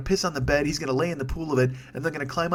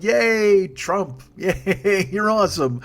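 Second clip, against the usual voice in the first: much higher and louder, hammed-up cheer; mock cheering fans; 6 semitones higher, 5 dB louder, much slower than usual. Host mocking Trump supporters with a hammed-up high cheer. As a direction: squeal it like a gushing fan, mocking them. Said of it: "there's still people who are like".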